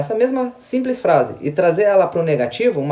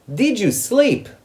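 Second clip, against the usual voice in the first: "Did you sleep" slow and high, rising at the end; question intonation; 5 semitones higher, much slower than usual. Shown as a demonstration. Teacher showing students how to ask in the past, questioning intonation. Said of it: "a entonação de pergunta".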